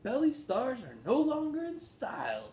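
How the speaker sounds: a high, loud showman's announcement; salesman's loud pitch. A narrator's reading. McBean announcing to the Sneetches, high and loud. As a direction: sell it big to the crowd.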